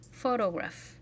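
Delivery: "Photograph" stressed on the first syllable; "Photograph", first syllable strong, the rest lighter; one accented syllable. Shown as a demonstration. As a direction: lean on "Pho" in "Photograph". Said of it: "we accentuate one syllable".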